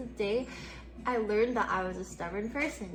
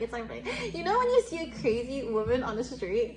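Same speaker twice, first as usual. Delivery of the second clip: ordinary talk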